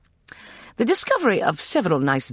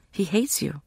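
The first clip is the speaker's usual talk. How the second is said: hushed whisper; 5 semitones higher than usual. A narrator's reading. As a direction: whisper it, frightened. Girl confides a fear.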